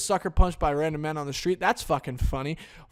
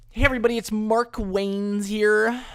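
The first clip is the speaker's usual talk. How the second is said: mock host intro; 6 semitones higher, 4 dB louder than usual.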